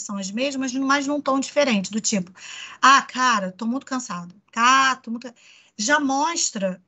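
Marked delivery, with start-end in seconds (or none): 2.8-5.3 snappy, annoyed "Ah, cara"; mildly irritated complaint. Shown as a demonstration. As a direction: bite off the words in irritation. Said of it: "uma coisa mais irritada".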